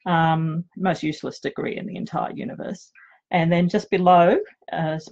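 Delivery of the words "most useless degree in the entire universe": wry whispered put-down; half-whispered self-mockery; whispered aside. Real, not acted. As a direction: breathe it as a self-mocking joke. Self-mocking aside about her degree.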